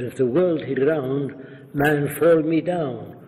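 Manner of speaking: emphatic imitation of an Arab immigrant's broken English; mimicked Arabic accent, insisting. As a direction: argue in a put-on Arab dialect. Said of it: "in a dialect".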